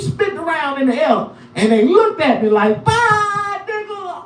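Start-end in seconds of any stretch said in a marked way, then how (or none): 2.8-4.2 much higher cartoon voice for the teeth; high squeaky teeth voice, fading out; talking teeth. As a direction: wave him off as the flying teeth. Teeth personified saying goodbye.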